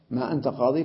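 قاضي as qaadii in a plain spoken tone; stop on yaa. Shown as a demonstration. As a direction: say قاضي ending in an open "ii". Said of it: "فيقف عليها بالياء".

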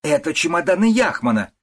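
high, loud accusation; mother-in-law shouts at the young wife; angry outburst. A narrator's reading. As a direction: hurl it at her.

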